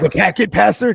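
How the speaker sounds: thick Boston "packet passer"; Boston accent. Pretend. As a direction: say it like a Boston local. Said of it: "That's like a, a thick Boston accent".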